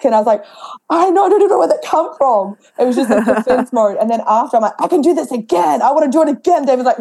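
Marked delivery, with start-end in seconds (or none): 0.9-2.6 much higher, breathless I-know; giddy amazement at her own skill; amazed disbelief. Retold or imitated. Retold amazed reply after win. 4.8-6.6 higher, hyped-up want to go again; buzzing after the win; eager. Retold or imitated. Retold post-fight eagerness.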